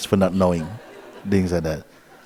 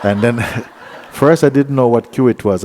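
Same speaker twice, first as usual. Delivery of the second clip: laughing; 3 semitones higher, 4 dB louder than usual. Real, not acted. Laughing while telling market story.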